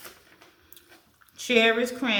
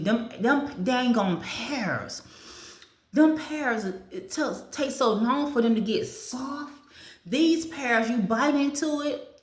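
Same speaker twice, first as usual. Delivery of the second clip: excited; 5 semitones higher than usual. Real, not acted. Ranting about hard pears.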